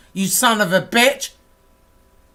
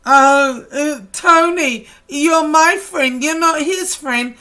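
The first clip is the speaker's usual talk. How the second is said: mock whining; 3 semitones higher than usual. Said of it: "You're like a little whining bitch".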